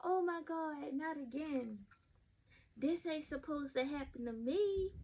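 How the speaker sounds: quoting the song's breathy intro lightly; imitating a singer. A podcaster quoting a singer's song intro, lightly imitated. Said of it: "Carrie Hilson song where she said that".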